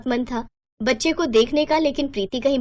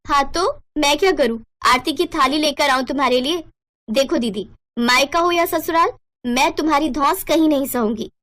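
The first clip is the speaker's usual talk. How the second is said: higher, sarcastic younger sister snapping back; defiant retort; 4 semitones higher than usual. Acted. Younger sister defying her elder sister, sharp and sarcastic. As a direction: throw her words back at her with scorn.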